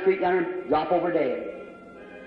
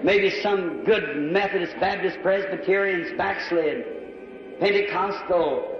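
earnest public prayer. Real, not acted. Leads an altar prayer.

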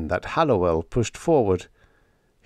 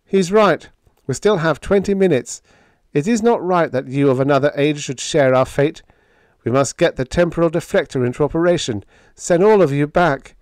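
high, raised, urgent character voice; earnest lieutenant; 8 semitones higher, 5 dB louder than usual. Acted. Biggs urging that the visitors be sent home, earnest and urgent. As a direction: press the point in a raised voice.

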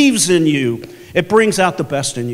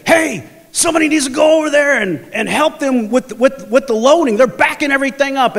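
higher-pitched mock complaint; complaining radio call; 5 semitones higher than usual. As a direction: call out the gripe as if reporting it over the radio. Acts out workers complaining over radio.

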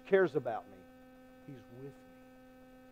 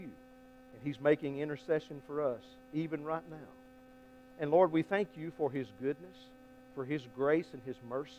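closing prayer; 3 semitones lower than usual. Acted. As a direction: pray gently over the congregation.

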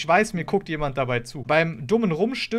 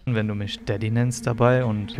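sleazy suitor voice; 6 semitones lower than usual. Acted. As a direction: play the creepy client low. (schmieriger Freier)

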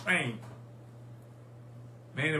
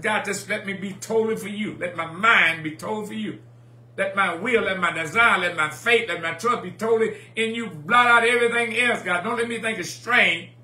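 fervent prayer; 2 semitones higher, 5 dB louder than usual. Retold or imitated. Preacher retelling a personal prayer to God, fervent and building. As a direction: plead in rising, preached phrases. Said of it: "But I said".

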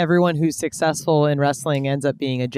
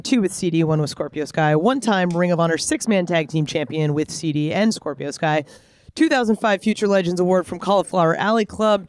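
rushed breathless list; all in one breath. Shown as a demonstration. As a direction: rattle it off without breathing. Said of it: "I'm gonna try and go through this in one breath".

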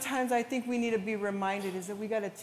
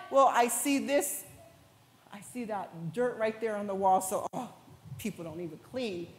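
mock complainer; 4 semitones lower than usual. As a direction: sneer like a petty critic. Mocking a complaining churchgoer.

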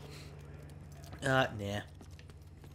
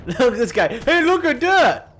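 gloating yell; 11 semitones higher, 12 dB louder than usual. Real, not acted. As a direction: drag out the jeer at the fallen foe. Mocking a dead enemy player.

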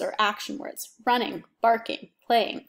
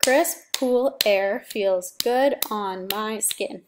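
"Crisp, cool air feels good on my skin" beat by beat, slow; slow syllable count; 3 dB louder, much slower than usual. Shown as a demonstration. Teacher counts syllables for the class, slow and deliberate. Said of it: "That's eight syllables".

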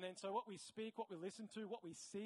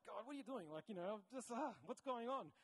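higher, mildly exasperated plea to God; exasperated questioning; 4 semitones higher than usual. Retold or imitated. Speaker recalls questioning God over new barriers, exasperated. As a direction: ask God, baffled and frustrated. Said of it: "And it was like".

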